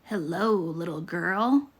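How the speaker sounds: a hint of a growling wolf greeting the girl; deep growly wolf. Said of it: "said a deep, growly voice".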